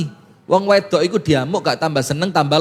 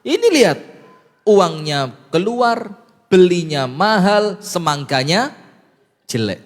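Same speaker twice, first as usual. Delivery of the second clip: mock angry wife. Wife scolding her husband over a bad melon, mildly mock-angry. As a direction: lightly scold like an annoyed wife. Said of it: "maka istrinya marah".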